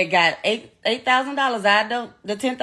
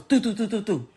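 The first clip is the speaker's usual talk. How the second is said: imitated gunshots; 4 dB quieter than usual. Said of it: "all I heard was".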